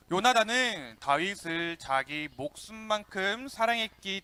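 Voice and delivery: slow, measured unison reading; scripture reading aloud. Real, not acted. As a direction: read the verse slowly for all to follow. Leads scripture read aloud together.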